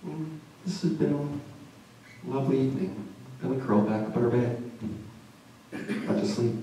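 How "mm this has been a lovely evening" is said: soft and content. Retold or imitated. Contented quote after a romantic walk.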